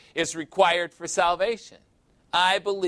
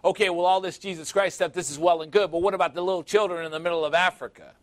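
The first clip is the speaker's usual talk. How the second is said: mocking skeptic; 3 semitones higher, faster than usual. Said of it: "world famous for teasing about that".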